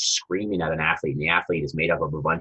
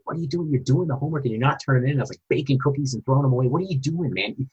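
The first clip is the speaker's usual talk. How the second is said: raised, exasperated pleading with a son; high, pushing, frustrated dad voice; losing temper; 8 semitones higher than usual. Retold or imitated. Dad losing patience over son's homework, exasperated and raised. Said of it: "I actually lost my temper".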